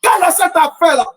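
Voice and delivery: rising preacher's cadence, questioning the crowd; impassioned sermon delivery; fervent preaching. Acted. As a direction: preach it, hammering the refrain. Preacher's rhetorical refrain.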